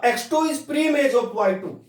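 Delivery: slow reading aloud. Shown as a demonstration. Teacher showing how to read it aloud, slowly. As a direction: read each word out clearly. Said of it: "इसको ऐसे पढ़ूंगा".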